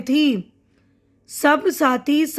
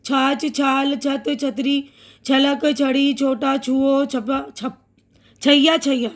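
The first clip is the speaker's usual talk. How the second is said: fast reading. Shown as a demonstration. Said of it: "अब तेज़ बोलती हूँ जल्दी जल्दी".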